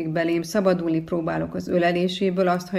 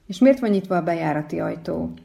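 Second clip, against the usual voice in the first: ordinary delivery, nothing marked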